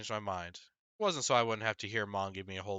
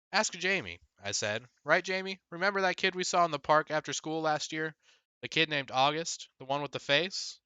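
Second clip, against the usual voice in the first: put-on high, louder eager kid; eager urging; 7 semitones higher, 4 dB louder than usual. Boy urging his little brother to confirm, high and eager. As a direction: rope your brother in.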